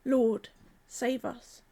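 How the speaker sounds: "Lord, save us." drawn out, weight on "Lord"; slow call to the Lord. Shown as a demonstration. Preacher modelling the believer's cry to Jesus. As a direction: say it slowly as a plea. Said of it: "call out to him".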